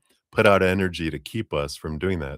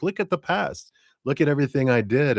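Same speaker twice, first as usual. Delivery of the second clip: put-on inner child; 9 semitones higher than usual. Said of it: "They're like".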